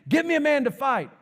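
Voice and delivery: high, loud call to battle; booming voice. Acted. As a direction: boom it out like a giant's challenge. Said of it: "you hear this booming voice".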